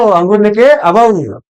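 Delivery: teacher slowly repeating the parent's promise so the mnemonic sticks; slow, drawn-out repeat. Retold or imitated. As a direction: say "अंगूर लेके आओ" very slowly, stretching each word. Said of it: "तो बोले कि बेटा मत रो".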